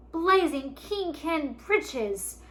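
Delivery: loud, high, slow roar. A narrator's reading. Father roaring at news of dragon gold, loud roar. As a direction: bellow the oath with delight. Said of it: "Fergus roared".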